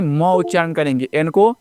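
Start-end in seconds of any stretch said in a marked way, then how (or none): 0.0-0.2 म as "muh", not "em"; letter sound म, "muh". Shown as a demonstration. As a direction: sound out म with an open vowel after it. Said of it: "एम को एम नहीं".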